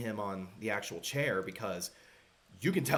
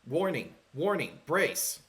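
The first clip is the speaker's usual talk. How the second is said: computer warning voice; 4 semitones higher, 3 dB louder than usual. Acted. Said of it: "the dropship is, uh, telling you".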